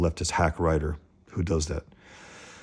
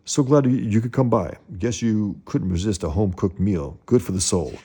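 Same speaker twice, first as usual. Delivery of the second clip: a lightly raised, hearty host welcoming a guest; hearty father voice; 3 semitones higher than usual. Acted. Father welcoming Murdock to dinner, lightly hearty. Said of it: "he goes".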